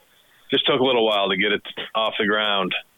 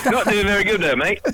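real laughing tease, much higher pitch; amused teasing; 10 semitones higher than usual. Real, not acted. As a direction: tease him through laughter. Teasing the host's fake accent.

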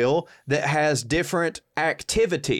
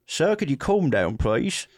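even-toned Cockney request; lightly put-on Cockney; Cockney 911 operator. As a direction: settle the caller in Cockney. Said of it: "is Cockney".

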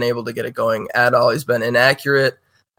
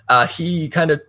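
coughing fit; 4 semitones higher than usual. Real, not acted. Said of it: "sorry, can you edit that out?".

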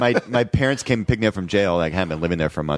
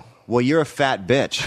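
laughing retort; 4 semitones higher than usual. Retold or imitated. Retelling his insult to the math teacher, laughing. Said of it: "And I go".

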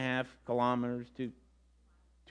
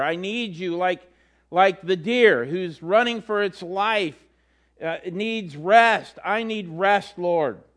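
pleading prayer; slower than usual. Acted. Voiced prayer of spiritual crisis.

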